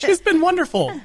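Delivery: high, slow sugary tone; sing-song sweetness, drawn out; sweet high voice. Acted. Mocking sweet voice.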